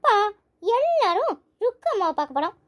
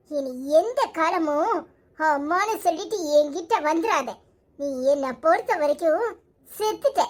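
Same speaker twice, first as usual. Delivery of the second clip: bitter curse; 4 semitones lower than usual. Acted. Mother disowning her daughter, low bitter curse.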